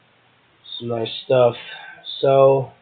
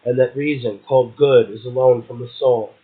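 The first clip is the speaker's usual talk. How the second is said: measured, solemn reading of Blake; poetry reading. Acted. Host reads Blake's devil passage to his guest, in a measured recital.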